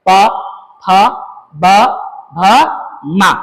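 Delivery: "प, फ, ब, भ, म" each made with both lips meeting; isolated "प, फ, ब, भ, म", closed at both lips; bilabial sound demo. Shown as a demonstration. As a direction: say "प, फ, ब, भ, म" one by one, pressing the lips together. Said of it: "दोनों होठ सटेगा".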